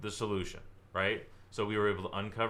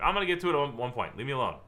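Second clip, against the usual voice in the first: high, louder annoyed brush-off; mock irritated client; 4 semitones higher, 4 dB louder, faster than usual. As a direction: brush the agent off.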